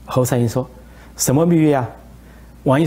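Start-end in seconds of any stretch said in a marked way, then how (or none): 1.2-1.9 higher, surprised what-secret-pact; puzzled question. Retold or imitated. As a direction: act baffled, as if you never heard of it. Ally feigns ignorance next morning.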